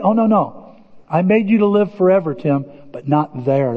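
calm fatherly reassurance; gentle correction. Retold or imitated. God answers gently.

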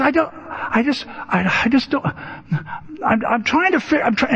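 high, halting, broken-off imitation; flustered Dave. Dave struggles to answer who he is, imitated high flustered stammer. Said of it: "he goes".

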